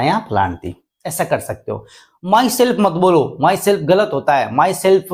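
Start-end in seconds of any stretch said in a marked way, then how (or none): 2.3-5.0 slow warning. Shown as a demonstration. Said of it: "cannot be used as a subject".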